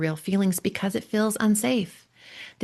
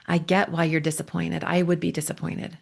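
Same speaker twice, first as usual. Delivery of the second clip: empathetic reply. Shown as a demonstration. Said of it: "step into his shoes and say".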